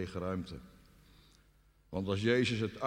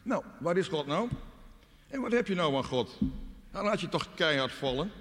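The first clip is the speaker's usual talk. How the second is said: higher-pitched mocking tempter; taunting devil; 8 semitones higher than usual. The enemy tempts the doubting believer, tauntingly. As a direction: jeer at the believer's faith in a raised voice. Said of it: "die stem van de vijand, de verzoeking van de duivel".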